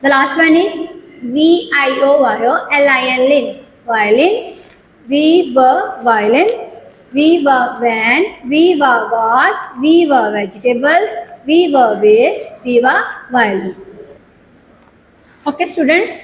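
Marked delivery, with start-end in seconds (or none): 1.2-4.6 slow blending. Shown as a demonstration. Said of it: "with syllables". 5.1-13.7 very slow sing-song recap of the words; slow syllable recap. Shown as a demonstration. Teacher drilling nursery class, very slow chant. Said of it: "with syllables".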